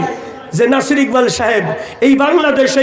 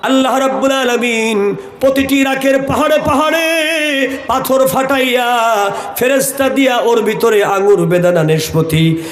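melodic waz preaching. Acted. Preacher recounting a prophet's story to a congregation, melodic chant. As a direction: tell the story in long, chanted phrases.

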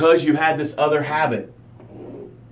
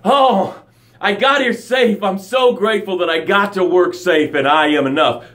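cheerful coworker arrival; 2 semitones higher than usual. Retold or imitated. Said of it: "you're like".

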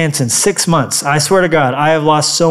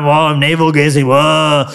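mock gloom; 2 semitones lower than usual. Mocks gloomy self-focused believers.

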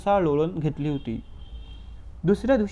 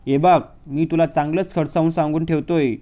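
louder menacing warning; stern warning uncle; 5 dB louder than usual. Acted. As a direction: lean in and threaten the boy. Uncle threatens Harry. (काकांची मोठ्या आवाजातली धमकी)

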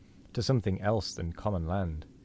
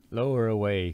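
a touch louder, calling an order; mild cry; 2 semitones higher, 4 dB louder than usual. Acted. Ahab ordering the boat lowered, a mildly raised cry. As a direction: call the order out, lightly. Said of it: "cried Ahab".

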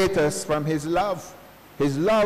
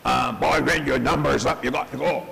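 imitating Red Fox; 2 semitones lower than usual. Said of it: "When Red Fox says to Grady".

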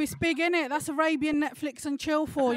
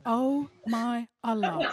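exasperated mum; slower than usual. Retold or imitated. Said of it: "My mum was like".

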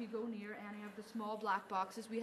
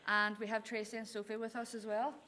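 calling out to spirits. Acted. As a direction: address the spirits clearly and politely. Calls out to spirits.

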